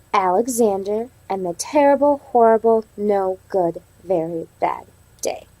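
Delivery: storybook read-aloud to the class; reading to children. Acted. Teacher reading the story to her class, storybook voice. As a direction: read it like a picture book for kids.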